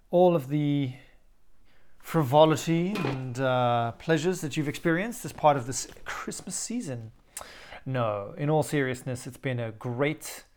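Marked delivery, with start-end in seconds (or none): 0.1-7.1 late night DJ voice. Pretend. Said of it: "I'm doing my sexy late night D J voice".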